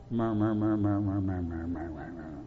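a crowd murmuring, dying away; grumbling murmur. Shown as a demonstration. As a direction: mutter it under your breath, fading out. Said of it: "Do you know what murmuring sounds like?".

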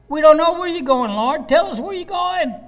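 very high-pitched mock whine; hammed-up, high whiny pleading. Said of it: "you can hear it in the whiny voice".

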